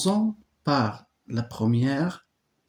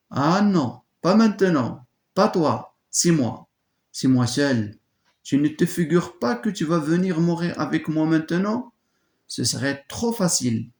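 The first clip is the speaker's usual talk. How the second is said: fierce refusal; 5 semitones higher than usual. Acted. Antigone refuses her sister.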